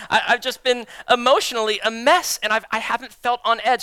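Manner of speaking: loud, laughing admission; laughing while admitting he's a mess. Real, not acted. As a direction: laugh through the confession. Laughing confession of struggle.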